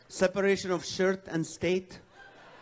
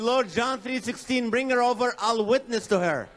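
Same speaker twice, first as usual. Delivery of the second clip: higher, louder, slowed pleading to God; eager prayer; 5 semitones higher, 3 dB louder than usual. Retold or imitated. Single man praying eagerly to God, mock earnest. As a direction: beg the Lord with a sly grin. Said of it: "I said".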